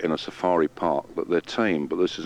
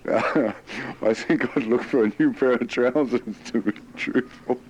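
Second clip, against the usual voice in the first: laughing; 4 semitones higher than usual. Real, not acted. Guard jokes about needing trousers.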